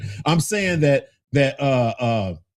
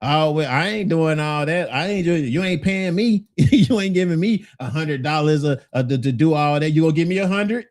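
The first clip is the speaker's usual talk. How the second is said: wife with an attitude; 2 semitones higher than usual. Retold or imitated. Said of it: "don't get on that little attitude like".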